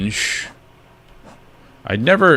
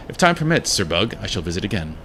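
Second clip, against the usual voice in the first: lightly voiced, formal heroine; understated passive-aggressive courtesy; Hornet; 4 dB quieter than usual. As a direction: take leave with politely barbed restraint. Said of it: "I like Hornet's personality".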